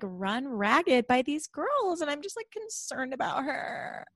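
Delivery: mock concerned. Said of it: "where she's like".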